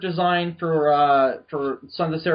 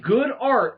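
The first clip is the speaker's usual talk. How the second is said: "good" leaned on, slowly and deliberately; stress on good; 5 semitones higher, 4 dB louder than usual. Real, not acted. Host setting contest rules, stress on "good". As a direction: punch the word "good". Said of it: "Emphasis on the word good".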